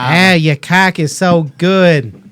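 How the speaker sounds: put-on Boston accent. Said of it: "I do such a bad Boston accent".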